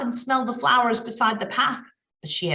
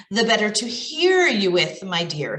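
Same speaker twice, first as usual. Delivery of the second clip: grandma voice. Acted. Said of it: "in Grandma's voice".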